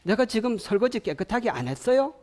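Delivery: high, rising indignant question; offended comeback. Acted. Spouse hearing dish advice as blame, indignant. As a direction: act wrongly accused, pitch lifted. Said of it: "이런 식으로 받아들여요".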